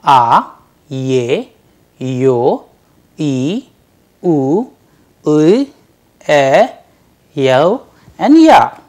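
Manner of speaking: each vowel called out in turn; Russian vowels, together. Shown as a demonstration. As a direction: recite the vowels for the class to repeat. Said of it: "Let's repeat them together".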